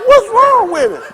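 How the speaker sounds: very high, loud, laughing alarm; panicked. Retold or imitated. Seeing the goldfish on its side, high and panicked. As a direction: shriek it over the dying fish. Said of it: "I was like".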